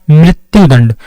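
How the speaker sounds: मृत्यु said as mri-tyu with a clear ee-like ri; teacher models मृत्यु with ri, not ra; ri sound in मृत्यु. Shown as a demonstration. Teacher shows students मृत्यु takes ri, never ra. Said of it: "ई की sound आती है इसमें".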